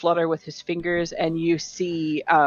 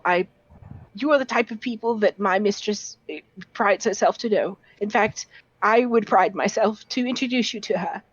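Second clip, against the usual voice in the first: put-on lightly raised nervous young scholar voice; a shy, stammering bookish lad, a bit higher; 4 semitones higher, faster than usual. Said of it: "he just says".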